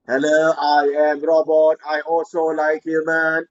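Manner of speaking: stiff, even robot voice. Acted. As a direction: talk like a tired robot. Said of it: "my robot".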